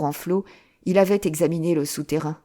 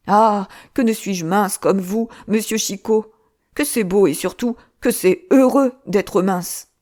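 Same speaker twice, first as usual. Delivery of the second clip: plaintive lament; 3 semitones higher, 4 dB louder than usual. Acted. Le moine se lamente.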